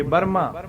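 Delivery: ਬਰਮਾ with a weighted r; heavy r. Shown as a demonstration. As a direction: lean on the r in ਬਰਮਾ. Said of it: "ਰਾਰੇ ਨੂੰ ਥੋੜ੍ਹਾ ਜਿਹਾ ਭਾਰਾ ਕਰਕੇ".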